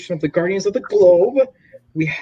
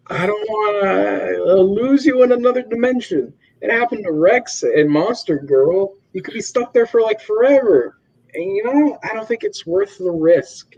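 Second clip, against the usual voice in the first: higher, pleading mock girlfriend; a hint of a worried partner begging; voicing Eve; 6 semitones higher than usual. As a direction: Eve pleading with Mark, lightly voiced higher.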